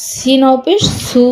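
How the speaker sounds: long, sustained সু at the end; drawn-out vowel. Shown as a demonstration. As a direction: hold the final সু for one alif count. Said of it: "একালিপ টান হবে".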